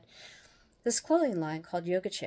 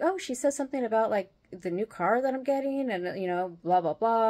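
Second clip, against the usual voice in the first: higher, eager retelling; excited; 4 semitones higher, 4 dB louder than usual. Retold or imitated. Telling friend about the card reading, excited. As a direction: gush quickly, then run into blah-blahs. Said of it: "I was all excited".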